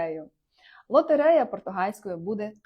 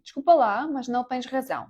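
sarcastic sorry; 4 semitones higher, 3 dB louder than usual. Shown as a demonstration. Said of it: "з сарказмом".

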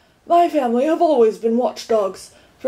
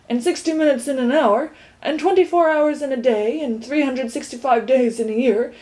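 earnest lecture; 3 semitones higher than usual. Acted. Tock lecturing about time.

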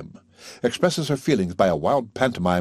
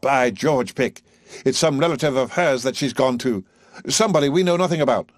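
high, loud, quickening; excited; 6 semitones higher, 4 dB louder than usual. A narrator's reading. Higgins to Pickering, excitedly guessing where Eliza went. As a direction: leap on the idea eagerly. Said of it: "springs up excitedly".

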